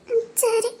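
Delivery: soft, crying agreement; small sniffly assent; tearful. Acted. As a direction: give in quietly through tears. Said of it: "அழாத".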